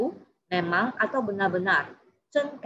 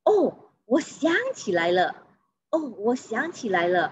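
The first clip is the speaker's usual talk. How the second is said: sudden realisation; 3 semitones higher than usual. Shown as a demonstration. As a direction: demonstrate something coming back to mind. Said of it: "menyatakan pengertian atau penyadaran". (tiba-tiba teringat, Oh bernada turun)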